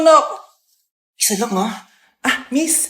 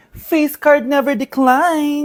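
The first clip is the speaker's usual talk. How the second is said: smug boast; 2 semitones lower, much slower than usual. Acted. Smug girl boasting slowly.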